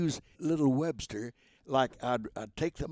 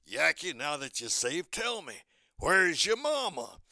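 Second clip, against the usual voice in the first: slow, kindly question from a lightly voiced bulldog; gentle bulldog voice; 3 semitones higher than usual. Bulldog Chopper asking Yankee about his mama, slow gentle voice. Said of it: "Chopper says".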